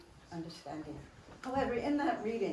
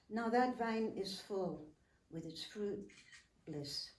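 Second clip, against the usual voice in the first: poem recitation. Acted.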